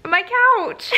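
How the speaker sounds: high-pitched cheeky My couch; a playful squeak of an answer to the principal; chirpy reply. Retold or imitated. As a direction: toss it off high and bright as a joke. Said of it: "And I'm like".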